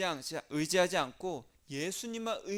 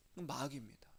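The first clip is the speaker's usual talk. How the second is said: ominous whisper; 4 semitones lower, 8 dB quieter than usual. Acted. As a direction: hush it like a secret. Naming the devil, whispered.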